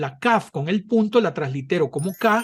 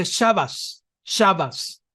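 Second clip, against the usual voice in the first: Ashkenazi accent; much slower than usual. Shown as a demonstration. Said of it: "un askenazita no la pronuncia Shabbat".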